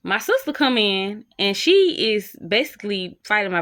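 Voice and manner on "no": very high, slow, crying wail; imitating a crying girlfriend's slow high wail; panicked wailing. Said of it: "she just over there like".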